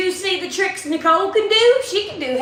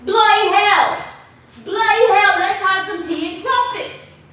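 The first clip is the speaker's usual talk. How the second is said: higher-pitched, exclaiming mock British; British accent; 5 semitones higher, 4 dB louder than usual. Trying to summon the British voice for viewers, mock British accent. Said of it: "The British is not coming to me".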